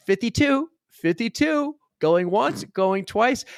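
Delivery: high, ringing raffle call; imitating the raffle caller; announcer calling numbers. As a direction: call it out to the whole yard. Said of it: "she's yelling the number".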